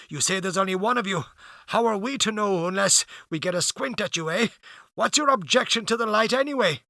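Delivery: a suspicious sailor pressing the stranger; blunt sailor. Acted.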